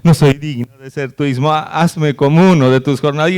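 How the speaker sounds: lightly voiced pleading son; a touch of a repentant son begging; son's humble plea. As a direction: beg the father, head bowed, mildly. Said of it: "él empieza su discurso".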